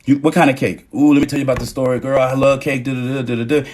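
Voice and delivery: lightly hammed-up girlfriend gush; gushing chatter. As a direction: rush in excited about cake. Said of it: "I'll be like".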